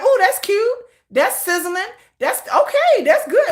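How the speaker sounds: mock gushing fan. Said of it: "we're like".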